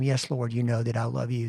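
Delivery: a touch of sadness; sad and hurt. Retold or imitated. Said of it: "is kinda sad and kinda hurt".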